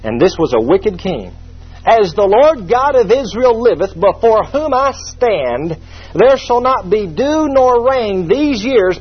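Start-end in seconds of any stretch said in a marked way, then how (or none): 1.8-9.0 prophet's oath. Acted.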